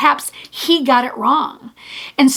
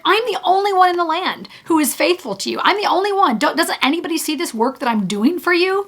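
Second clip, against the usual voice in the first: higher, fast self-pitying complaint; whiny Elijah; 4 semitones higher, faster than usual. Retold or imitated. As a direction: imitate a prophet feeling left alone.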